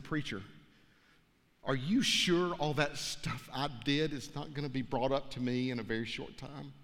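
barely-there voice with little breath behind it; weak dying breath. Retold or imitated. Dying man asking his preacher about his sins, softly and weakly. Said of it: "with just very little breath left in his body".

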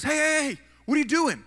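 mock stranger calling him out; stopping someone. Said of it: "this guy says".

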